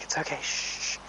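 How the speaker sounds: soft hushed shush; calm the horse gently; soothing hush. Retold or imitated. Rider showing how people soothe a spooked horse, soft hush. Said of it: "be like".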